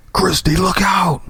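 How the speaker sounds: high, slow panicked cry; alarmed warning shout. Acted. Graham shouting a warning to Christy, panicked. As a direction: yell the warning before the crash.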